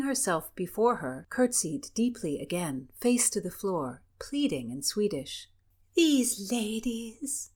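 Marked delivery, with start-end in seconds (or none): 5.9-7.5 high, very slow coo. Acted. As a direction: coo it sweetly. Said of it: "cooed Cecilia".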